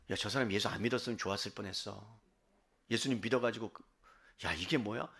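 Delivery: low, hushed grumbling; acted private criticism, soft and low; muttered disapproval. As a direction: grumble it under the breath. Acted disapproving thought about a believer.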